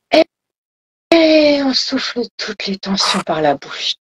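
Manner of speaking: voix posée qui guide la respiration, avec de longues pauses; relaxation guidée. Acted. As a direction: laisse le temps de respirer entre chaque consigne. (guidage de méditation, débit étiré par moments)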